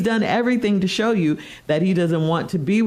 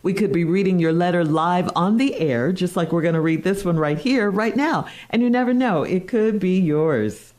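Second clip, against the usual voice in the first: morning radio dj. Acted. Host intro segment.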